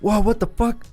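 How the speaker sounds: high-pitched, startled outburst; mock alarmed yelp; startled gangster. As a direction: act out being caught off guard, voice jumping up.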